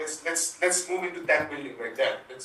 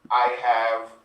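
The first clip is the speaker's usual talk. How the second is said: menacing villain; 9 dB louder than usual. Acted. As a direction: play the puppet killer springing his trap. Jigsaw villain line in remake.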